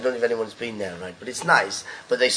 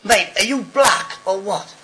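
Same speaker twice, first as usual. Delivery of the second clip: slow, drawn-out yell, higher and louder; imitated heckler shouting at the comic; mock heckler shout; 8 semitones higher, 5 dB louder, slower than usual. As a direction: call it out across the room to the stage. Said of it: "And he goes".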